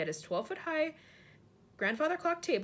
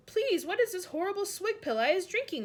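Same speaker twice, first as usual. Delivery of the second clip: disgusted giant; 9 semitones higher, 5 dB louder than usual. A narrator's reading.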